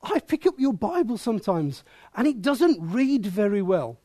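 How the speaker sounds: lightly put-on voice, swooping up and down; a hint of another person's lilting voice; Callie. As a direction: imitate someone else's singsong complaint. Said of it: "Callie sort of said to me".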